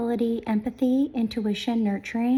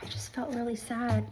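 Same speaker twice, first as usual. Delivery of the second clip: whispered, much softer, trailing to sad; real whisper; 7 dB quieter than usual. Real, not acted. Whispering to viewers beside the sleeping dogs. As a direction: keep it hushed so the dogs stay asleep. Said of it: "If I could go into another room where my dogs are".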